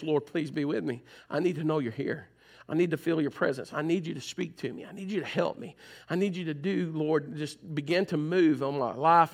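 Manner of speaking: soft, hushed plea to God; quiet pleading prayer. Pretend. Believer in the storm praying to God, hushed pleading. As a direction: pray it softly like someone in a storm.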